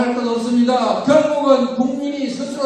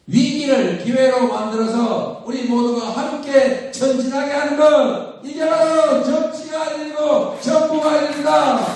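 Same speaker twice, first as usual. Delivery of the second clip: roaring rallying speech; 3 semitones higher than usual. Real, not acted. Builds to rally climax.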